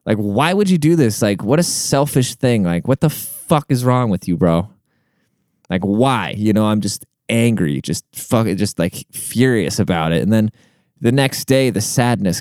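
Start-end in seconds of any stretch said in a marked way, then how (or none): 0.1-6.3 retold anger. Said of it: "I'm like … I was just so angry".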